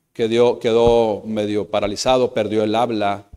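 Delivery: ordinary talk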